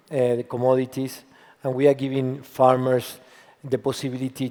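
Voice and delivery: husky, worn voice; hoarse from yelling. Real, not acted. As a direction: talk through a voice lost to cheering. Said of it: "I ran out of voice a little bit".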